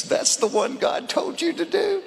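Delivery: high, amused quoted buddy; buddy laughing. Retold or imitated. Buddy teasing the preacher on the drive home, high and amused. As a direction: tease him like the laughing buddy. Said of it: "my buddy just kept laughing".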